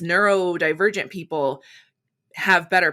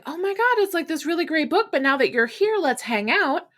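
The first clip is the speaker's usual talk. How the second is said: squealed much higher, bubbly and quick; gushing excitement; 9 semitones higher than usual. Retold or imitated. An allistic friend hoping to hang out, high gushing excitement. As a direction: gush about the book like an eager friend. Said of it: "expecting me to be like".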